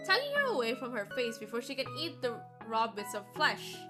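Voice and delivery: normal talking voice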